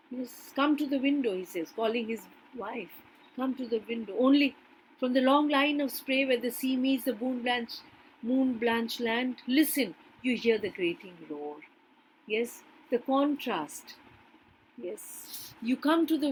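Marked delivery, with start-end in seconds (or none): 0.6-11.6 poem reading. Acted. Teacher rereads lines of poem.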